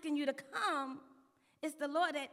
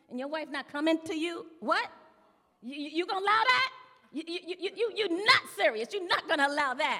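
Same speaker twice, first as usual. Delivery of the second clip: loud, stammering mock disbelief; incredulous men; 8 dB louder than usual. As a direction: challenge the king in loud, acted astonishment. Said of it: "all the men are looking at him like".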